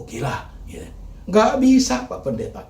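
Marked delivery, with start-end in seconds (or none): 1.3-2.1 high loud cry of refusal; anguished protest. Acted. Preacher voicing a bereaved parent, loud anguished cry. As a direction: wail it like a broken parent.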